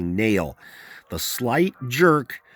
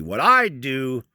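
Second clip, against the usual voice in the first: loud interruption; 4 semitones higher, 3 dB louder than usual. A narrator's reading. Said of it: "spoke very loudly".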